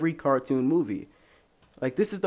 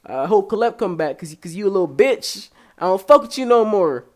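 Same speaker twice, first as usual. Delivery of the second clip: rising into a loud mock rant; a hint of an annoyed listener; mock angry listener; 6 semitones higher, 5 dB louder than usual. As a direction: tell him off like a fed-up fan. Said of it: "you gonna be like".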